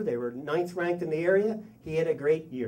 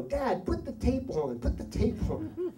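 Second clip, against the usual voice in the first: put-on high, drawn-out child's plea; imitated begging kids; 8 semitones higher, slower than usual. Kids to dad on the drive back, imitated begging. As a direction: plead slowly in a high kid voice.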